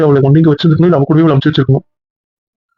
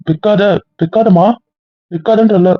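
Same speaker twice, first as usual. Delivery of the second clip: higher, urgent plea; insistent pleading; 4 semitones higher than usual. Acted. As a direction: beg them to stay on the line. Begs partner not to hang up. (உயர்ந்த குரலில் விடாமல் கெஞ்சல்)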